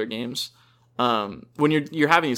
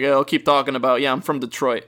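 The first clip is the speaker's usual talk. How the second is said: a hint of a put-on Italian accent, louder; mock Italian accent; 3 dB louder than usual. Mocking chatty soldiers in a light Italian accent. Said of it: "I don't even think that's really an Italian accent".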